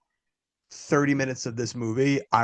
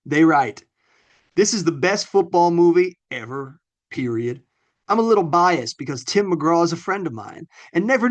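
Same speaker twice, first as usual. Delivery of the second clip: higher-pitched Foghorn Leghorn-style Southern reading; Southern accent; 3 semitones higher, 3 dB louder than usual. Acted. Co-host reads a glowing football review aloud, Southern accent. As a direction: read it out in a big Southern accent. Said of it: "my good Southern accent".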